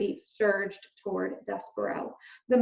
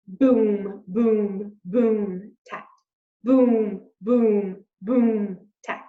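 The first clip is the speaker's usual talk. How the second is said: drum beat imitation; 6 dB louder, much slower than usual. A narrator's reading. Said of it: "went something like this".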